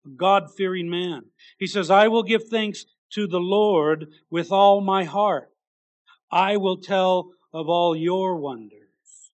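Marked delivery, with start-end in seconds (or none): 1.9-9.3 slow proclaiming. Acted. Verse read slowly with weight.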